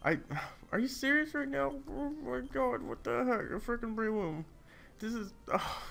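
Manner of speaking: indignant disbelief. Real, not acted. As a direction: squeak it out in outraged disbelief. Outraged at opponent's Breloom.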